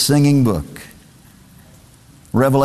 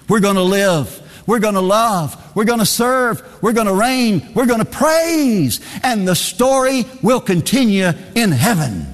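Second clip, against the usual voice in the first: rising preaching climax; 4 semitones higher than usual. Real, not acted.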